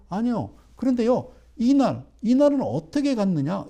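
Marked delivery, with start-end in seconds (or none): none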